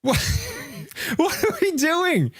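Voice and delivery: pitched high, exasperated and incredulous; exasperated disbelief. Real, not acted. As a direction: throw it up high, unable to believe it. Disbelief at list ranking.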